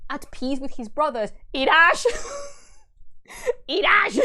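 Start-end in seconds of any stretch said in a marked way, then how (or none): 1.5-2.1 very loud, high cry; anguished calling out. Real, not acted. Cries out to story character. 3.7-4.2 very loud, high cry; anguished calling out. Real, not acted. Cries out to story character.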